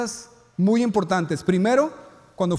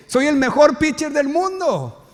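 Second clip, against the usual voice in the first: slow, high, proud boast; 7 semitones higher, 3 dB louder than usual. Retold or imitated. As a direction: crow it out like a champion. Boy boasting after striking out.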